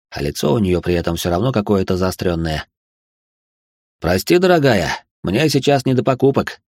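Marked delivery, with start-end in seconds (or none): 4.0-6.6 smiling. Acted. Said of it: "с улыбкой развёл я руками".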